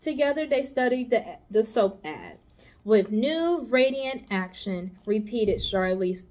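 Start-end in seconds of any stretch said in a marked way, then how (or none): 2.8-5.0 each word slow and weighed, With new radiant action; slow, pondering. Acted. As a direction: spell it out slowly, thinking. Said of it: "repeated Charlotte slowly".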